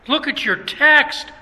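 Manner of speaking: teacher firmly ordering the class; stern command. Retold or imitated. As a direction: tell them sharply to look.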